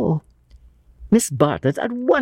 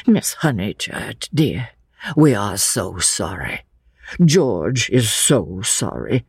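lightly voiced Mister Emerson. Old father apologises to Lucy for George, sorrowfully.

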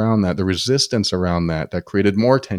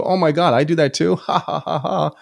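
amused realization; 7 semitones higher than usual. Retold or imitated.

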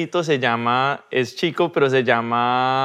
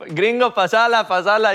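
higher mocking call of the cousins; cousins teasing; 8 semitones higher, 3 dB louder than usual. Cousins at football mocking the gringo, higher teasing. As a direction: tease him like a kid on the pitch. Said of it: "it was always como que".

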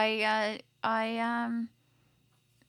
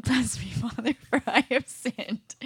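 slow, mock solemn confessing sinner; hushed confession whisper; 5 semitones higher than usual. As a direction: play the penitent, slowly. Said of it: "I'm gonna be the priest now".

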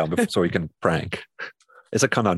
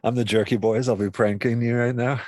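prank phone call voice; 4 semitones higher than usual. Pretend. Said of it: "prank phone call voice".

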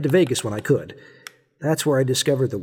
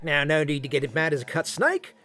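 fake Australian accent; 2 semitones higher than usual. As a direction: fake Aussie calming a furious opponent. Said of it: "I know my accent sucks".

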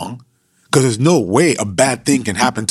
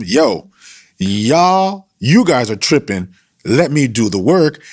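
casual street slang, a bit louder; hood version; 4 semitones higher, 4 dB louder, slower than usual. Retold or imitated. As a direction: wave the friends aside. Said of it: "I'm just giving you the hood version".

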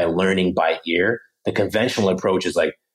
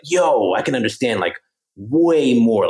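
amazed learner; 3 semitones higher than usual. Retold or imitated. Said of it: "they turn on the radio and they're like".

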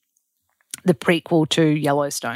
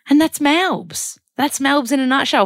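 sing-song catchphrase; 9 semitones higher, 4 dB louder than usual. Acted. Vlogger signing off her Melbourne trip, big sing-song catchphrase. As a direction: belt it like a jingle, dragging the opening.

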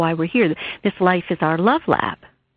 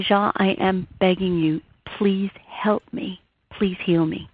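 a hushed plea, almost no voice, slowing on please; retold tearful plea. Pleading to her late husband in a tearful whisper. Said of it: "I'm crying".

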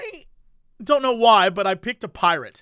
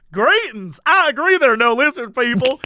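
friendly greeting; 3 semitones higher, 4 dB louder than usual. Retold or imitated. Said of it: "But if you said it like".

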